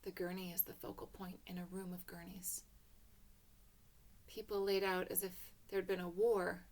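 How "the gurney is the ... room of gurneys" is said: soft whisper setting a grim scene. A narrator's reading. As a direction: whisper it, stepping into a silent ward. Hushed opening of hospital scene.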